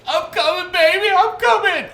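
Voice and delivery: put-on high, loud, frantic mom calling to her child; imitating an anxious mother rushing to rescue; shrill high mock of a panicked wife; worried mom. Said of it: "My wife is like".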